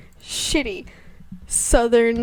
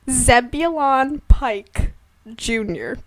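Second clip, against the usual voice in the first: Zebulon Pike said slowly, each syllable weighed; slow, deliberate name; slower than usual. Shown as a demonstration. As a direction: draw out "Zebulon Pike" grandly. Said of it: "Can you repeat that for me?".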